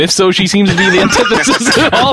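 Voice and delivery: lightly voiced radio DJ; annoying DJ voice. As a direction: read it like a cheesy DJ. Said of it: "I can do this in my annoying D J voice".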